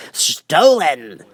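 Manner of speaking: sharp loud accusation; the king exclaiming to the jury. Acted. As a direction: pounce on it. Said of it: "the king exclaimed".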